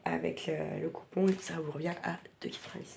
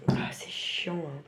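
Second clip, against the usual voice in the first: sniffling; 3 semitones lower, slower than usual. Real, not acted. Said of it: "Désolée, je renifle".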